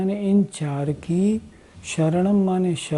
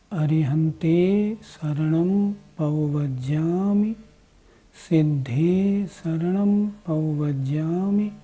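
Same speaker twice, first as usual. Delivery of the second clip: slow, deliberate chant; careful recitation. Shown as a demonstration. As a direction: recite slowly, word by word. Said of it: "इस प्रकार इसका उच्चारण". (धीमा, साफ़ पाठ)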